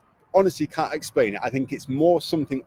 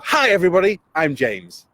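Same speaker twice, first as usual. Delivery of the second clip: "Hi everybody" higher and louder, lively; bigger energetic intro; 4 semitones higher, 3 dB louder than usual. Shown as a demonstration. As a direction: pump up "Hi everybody" like a presenter. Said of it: "And I've got them to go".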